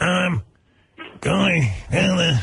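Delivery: very high, slow, dragging drawl. Imitating Eric answering an interview question on stage: Eric's slow talking. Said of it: "And then he goes".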